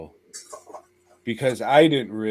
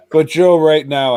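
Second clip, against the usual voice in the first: announcer boom; 6 semitones higher, 12 dB louder than usual. Real, not acted. Announcing the list segment.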